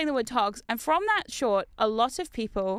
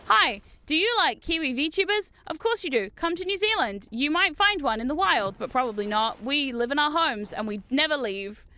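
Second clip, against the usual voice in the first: lightly put-on tourism promo pitch; playful advertiser's voice, a bit lifted at first; mock tourism advert. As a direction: pitch it like an upbeat advert, then ease off. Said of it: "I can advertise in New Zealand by saying".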